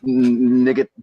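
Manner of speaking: Monty Python French taunter, hammed-up; mock French accent. Mocking French soldier taunting the English from the castle wall, hammed-up French accent. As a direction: sneer it in a bad cartoon French accent. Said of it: "I was just copying Monty Python".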